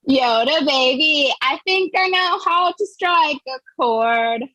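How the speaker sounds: lightly sing-song reading of a silly poem; poem recital. Acted. Comic reading a Baby Yoda poem to the crowd, lightly sing-song. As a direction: recite the verses with mock sentiment.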